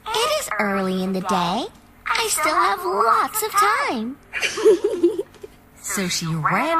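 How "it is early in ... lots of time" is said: put-on girlish giggle. A narrator's reading. Little Red thinks and giggles.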